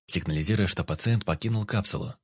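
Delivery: usual speaking voice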